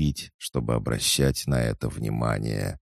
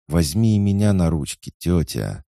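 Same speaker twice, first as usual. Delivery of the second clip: put-on high pleading child voice; a little child asking to be held; small child begging; 5 semitones higher, 5 dB louder than usual.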